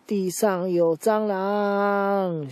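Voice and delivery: a hint of a frightened girl, high and very slow; lightly voiced panicky girl; scared girl. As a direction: drag it out like a girl spooked by a bug. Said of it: "那个女生就说".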